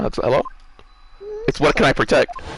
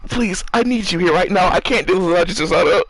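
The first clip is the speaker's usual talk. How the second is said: muffled, talking into hands; face in hands. Real, not acted. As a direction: speak with face buried in hands. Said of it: "he literally has his head in his hands".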